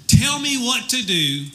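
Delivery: a touch of high, eager pleading; pleading jogger. Acted. Jogger promises God anything, lightly pleading. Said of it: "So the jogger says".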